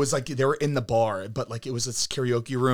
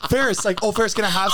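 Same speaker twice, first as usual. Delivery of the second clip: a hint of pleading; 7 semitones higher, faster than usual. Retold begging for water.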